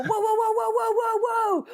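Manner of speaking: high mock chorus of startled crew; crew calming him. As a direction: play the crew rushing in to hold him back. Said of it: "you just hear people go".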